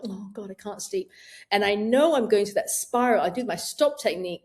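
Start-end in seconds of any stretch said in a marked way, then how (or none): 0.0-1.1 softer, weary night-time moan; sleepless groan. Retold or imitated. Waking at two in the morning, softer weary groan. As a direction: mutter it half asleep. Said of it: "you wake up and you go".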